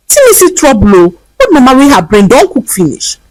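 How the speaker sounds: lightly voiced scornful man in pidgin; dismissive man. A narrator's reading. Stranger pushing the beggar away, mild scornful voice. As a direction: brush her off with scorn. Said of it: "pushed her away like trash".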